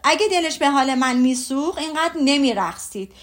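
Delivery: husband begging his wife to stop, exasperated yell; exasperated shout. Acted. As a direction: cry out to make her stop. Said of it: "از فرد استیصال داد زد".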